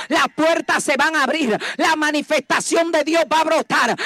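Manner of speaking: steady, driving declarations to the congregation; prédica enérgica. Real, not acted. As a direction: proclaim each promise like a rallying cry. (proclamando promesas con fervor)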